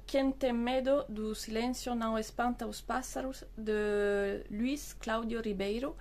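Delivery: rusty Portuguese accent on the title; careful Portuguese pronunciation of the title. Shown as a demonstration. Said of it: "je m'excuse pour mon accent".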